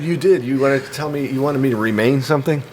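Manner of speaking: out of breath after running; panting between words. Real, not acted. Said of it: "Sorry, I'm out of breath".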